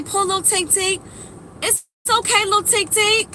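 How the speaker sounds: mock soothing baby talk. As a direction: coo at yourself like a toddler.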